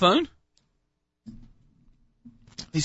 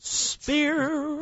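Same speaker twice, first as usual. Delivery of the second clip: higher, soft drawn-out American Spear; a light American accent; 9 semitones higher, 4 dB quieter than usual. Pretend. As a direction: stretch the name in American. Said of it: "How's my American accent?".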